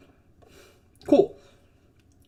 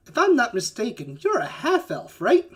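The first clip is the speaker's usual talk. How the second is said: jovial giant; 4 semitones higher than usual. Acted. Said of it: "a little higher pitched than you expected".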